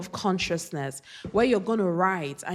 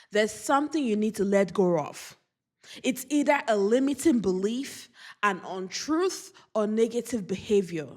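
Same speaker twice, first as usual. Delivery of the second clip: getting emotional; 3 semitones higher than usual. Real, not acted. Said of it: "I don't know why I'm getting emotional".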